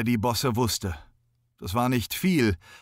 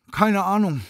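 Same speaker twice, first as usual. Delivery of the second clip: high, loud dismissive Keine Ahnung with falling end; high, loud Keine Ahnung dropping at the end; shrugging; 9 semitones higher, 5 dB louder than usual. A narrator's reading. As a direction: stress Keine, toss it off. Efi shrugs off question.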